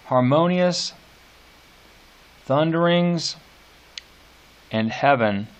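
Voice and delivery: each word lifted and set apart; words with variable beats. Shown as a demonstration. Teacher listing the words students must scan, pointed. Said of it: "could all go, uh, one of two ways".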